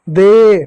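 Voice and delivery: दे said drawn out and emphatic; blended दे. Shown as a demonstration. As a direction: land firmly on a long दे. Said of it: "ए की मात्रा लगेगा होगा". (दे पर ज़ोर, खींचकर)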